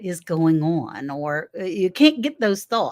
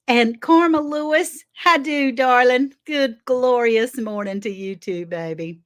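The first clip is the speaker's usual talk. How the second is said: effusive greeting; 4 semitones higher, 4 dB louder than usual. Real, not acted.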